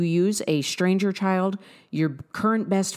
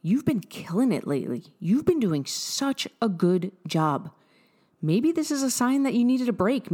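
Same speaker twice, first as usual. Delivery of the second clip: kind reassuring talk; 4 semitones higher than usual. Retold or imitated. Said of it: "You're gonna say".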